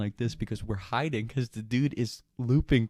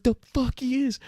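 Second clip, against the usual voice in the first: defiant; 13 semitones higher, 3 dB louder than usual. Retold or imitated. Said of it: "And he's like".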